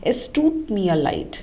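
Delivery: slow phrase with "tut" stretched; long "tut". Shown as a demonstration. Teacher repeats the apology for learners, long "tut". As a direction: lengthen the vowel of "tut". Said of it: "This tut here has to be long".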